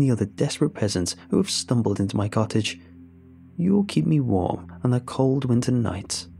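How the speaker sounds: lightly voiced gloating witch; a hint of a gloating old hag; menacing witch.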